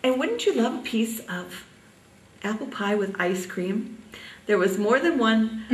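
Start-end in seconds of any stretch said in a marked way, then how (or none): 0.0-4.0 sweet sales pitch, pitched up then easing down; sweetly coaxing. Retold or imitated. Young waitress tempting a full diner with dessert, sweetly coaxing. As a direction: imitate a sweet young waitress's offer, lilting up at the start. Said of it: "I would very sweetly say".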